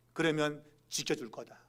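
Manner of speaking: ordinary talk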